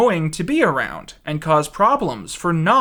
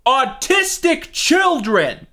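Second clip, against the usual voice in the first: mock pitch voice; 11 semitones higher, slower than usual. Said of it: "stand up and go".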